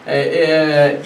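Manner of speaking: normal talking voice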